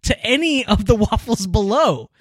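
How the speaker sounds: high-pitched, worked-up food rant; impassioned. Real, not acted. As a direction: argue it with rising, exasperated conviction. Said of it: "something I feel very strongly about".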